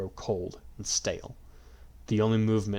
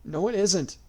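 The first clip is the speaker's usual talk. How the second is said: yell; 10 semitones higher, 4 dB louder, slower than usual. A narrator's reading. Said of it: "Yui yelled".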